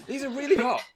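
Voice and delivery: high squeal. Real, not acted. Complaining about hot headset.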